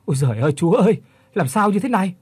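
high, loud frightened cry, voice catching; choked terrified plea. Acted. Old man tells Định of the ghosts, choked frightened cry. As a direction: plead in panic, choking up. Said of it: "Lão Kiên vừa nói vừa nghẹn".

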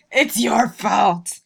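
laughing, slow; words stretched by laughter. Real, not acted. Laughing after friend's demo.

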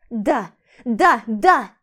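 loud, snapping repeats; hysterical yes. Acted. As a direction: break down and shout. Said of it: "Психанула я". (громкий истеричный крик)

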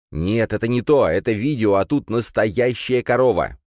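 pleading with his brother to stop the car; eager young Kirill. Acted. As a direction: younger brother eager to see real cows.

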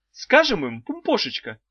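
high, sing-song wife voice; a high cooing old wife; wife's high voice. A narrator's reading. Wife teasing the trapped children, high and cooing. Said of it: "предложила Далила Петровна".

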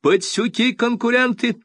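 high, loud outraged cry; outraged shout. A narrator's reading. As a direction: rage at the rivals. Sculptor continues shouting.

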